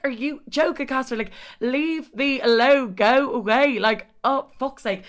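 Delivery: high, loud, slow shooing-off; exasperated brush-off. Retold or imitated. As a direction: shoo him away in annoyance. Telling Casper to leave.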